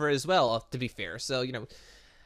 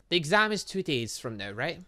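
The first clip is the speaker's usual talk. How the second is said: usual speaking voice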